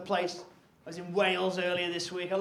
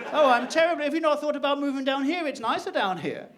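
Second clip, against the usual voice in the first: London comedian; 4 semitones higher, 3 dB louder than usual. Acted. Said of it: "you meet London comedians".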